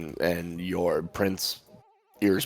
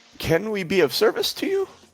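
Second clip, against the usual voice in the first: very high, swooping, very feminine voice; 5 dB louder than usual. Game master voicing a dog sled that speaks to a player, very feminine voice. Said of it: "a very feminine voice comes out of it".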